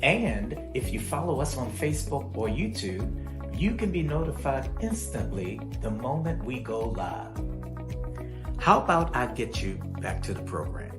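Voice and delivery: measured promo announcer voice over music; polished live-show bumper read. Acted.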